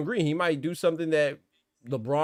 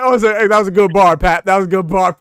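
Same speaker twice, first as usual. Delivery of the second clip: mock loud praise; 11 dB louder than usual. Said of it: "Osa said".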